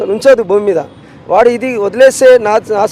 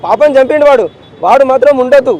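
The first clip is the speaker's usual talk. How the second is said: raised, pained insistence on justice; a grieving father pleading hard, voice pushed up; angry demand; 3 semitones higher, 4 dB louder than usual. Real, not acted. Father demanding justice for his murdered daughter, angry and raised.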